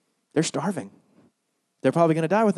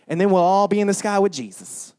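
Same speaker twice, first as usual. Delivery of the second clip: mock hippie Jesus; 4 semitones lower than usual. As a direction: lull it out like a mellow hippie. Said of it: "He just went around like".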